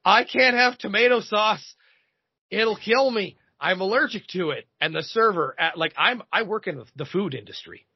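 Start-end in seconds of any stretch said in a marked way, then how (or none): 0.0-4.7 a hint of her hammed-up panic; dramatic diner, lightly voiced panic; mock panic. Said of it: "freaks the fuck out".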